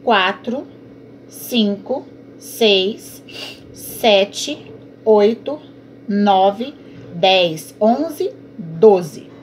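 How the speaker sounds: each number a separate beat; counting syllables. Shown as a demonstration. Teacher counting poetic syllables aloud, beat by beat. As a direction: tick them off one by one. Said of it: "Doze sílabas".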